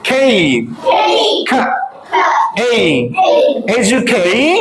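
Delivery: কে built from an aspirated "kh" and "ay"; sound by sound. Shown as a demonstration. Teacher drills the stressed second syllable, sound by sound. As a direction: isolate the sounds of কে, then join as "ej-u-KAY". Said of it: "so let's say".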